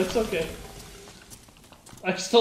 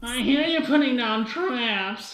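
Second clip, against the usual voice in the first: nerd voice; slower than usual. Retold or imitated. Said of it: "Like the biggest nerd voice".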